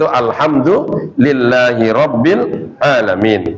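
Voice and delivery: slow, drawn-out Arabic recital; measured recitation. Shown as a demonstration. Teacher citing Al-Fatihah to the class, measured recitation. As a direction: recite the verse slowly, syllable by syllable. Recites the opening verse slowly.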